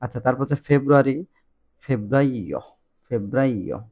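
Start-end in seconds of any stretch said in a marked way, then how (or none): 1.8-3.8 ফেব্রাইও as feb-BRAI-o, rolled r; Italian febbraio. Shown as a demonstration. Teacher modelling Italian February, careful pronunciation. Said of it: "ফেব্রুয়ারি বলতেছে ফেব্রাইও".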